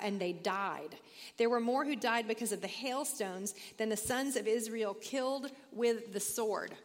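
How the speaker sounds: steady, measured reading of scripture. Acted. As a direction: read the passage out for the class. Reads scripture aloud.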